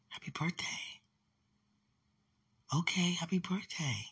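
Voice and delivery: whispered birthday wish. Real, not acted. Whispering a birthday wish to herself in the dream. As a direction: breathe it in a whisper.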